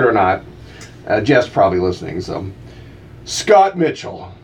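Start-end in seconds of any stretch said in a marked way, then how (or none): 3.2-4.3 slow, deliberate announcer read; mock-grand promo read; radio slogan. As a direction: intone it like a station tagline. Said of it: "this one has some backstory".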